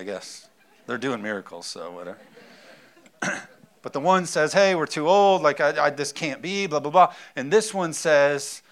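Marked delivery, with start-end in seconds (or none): 4.5-7.1 mock complaining Zechariah. Mocking Zechariah's excuse.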